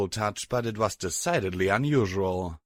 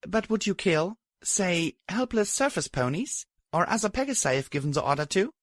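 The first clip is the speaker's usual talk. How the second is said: higher, pointed questions; challenging heroine voice; 9 semitones higher than usual. A narrator's reading. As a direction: press her hard.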